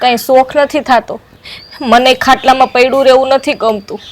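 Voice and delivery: loud, hurt protest; loud and aggrieved; loud complaint. Acted. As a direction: complain loudly to the sister-in-law. Sister-in-law quarrel, complaint.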